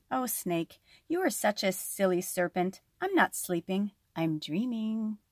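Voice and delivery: soft, knowing lizard; knowing smile. Acted. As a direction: smile as you explain. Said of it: "Lizard smiled knowingly".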